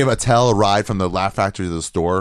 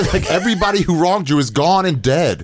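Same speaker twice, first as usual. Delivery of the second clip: laughing exclamation; 10 semitones higher, 5 dB louder than usual. Real, not acted. Laughing about comics' grudges.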